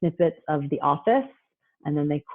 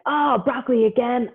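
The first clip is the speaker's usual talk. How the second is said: put-on whiny kid; 6 semitones higher than usual. Kid at dinner whining about broccoli, mock whine. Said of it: "When your kid's like".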